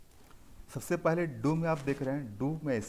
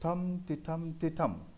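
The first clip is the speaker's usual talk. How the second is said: higher chant, long थम then quick टिठम; rhythmic stress pattern; 4 semitones higher, slower than usual. Shown as a demonstration. Teacher summing up the pattern, stressed rhythm. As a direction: beat out थम, टिठम with weight on each ठम. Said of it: "इस तरह से आपका pattern बनता है".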